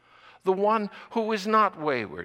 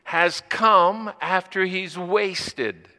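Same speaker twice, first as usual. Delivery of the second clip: put-on resentful older son; 6 dB louder, much slower than usual. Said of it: "He says".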